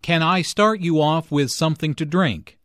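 yes-no question lifting on "drink"; rising question intonation. Shown as a demonstration. Teacher showing a yes-no question, rising intonation on "drink". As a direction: let "drink" rise at the end. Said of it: "the intonation rises at the end".

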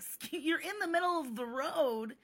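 high, lilting protest; not rude. Retold or imitated. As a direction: replay it as a harmless heads-up. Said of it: "I was not rude".

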